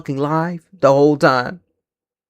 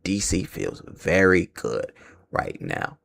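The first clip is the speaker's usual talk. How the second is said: slow, drawn-out, sceptical reading of D C feels very good right now; mock quoting the boss; 5 semitones lower, 11 dB quieter, slower than usual. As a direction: read it back as if you don't buy a word.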